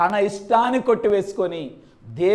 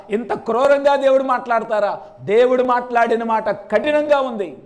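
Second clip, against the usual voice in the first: protesting father. Pretend. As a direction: argue with God as the wronged father. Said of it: "అలాగ మాట్లాడాల్సింది". (దేవునితో వాదిస్తున్న తండ్రి, ఆవేశంగా)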